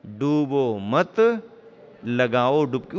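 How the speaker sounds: डूबो मत stretched slowly, a stop, then लगाओ डुबकी; slow डूबो मत with a comma after मत; pause after मत. Shown as a demonstration. Preacher reciting the title with its comma, pause after मत. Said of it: "डूबो मत के यहाँ लगाओगे कामा".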